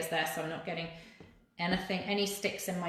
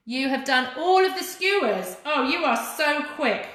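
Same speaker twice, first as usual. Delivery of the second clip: impressed surprise; 7 semitones higher, 7 dB louder than usual. Real, not acted. Reacting to viewers finishing fast.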